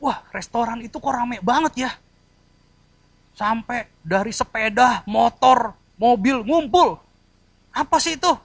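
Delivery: high, loud amazed onlooker; curious wonder. Acted. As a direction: gape at the crowded restaurant. Preacher acts out curious onlooker. (heran dan takjub)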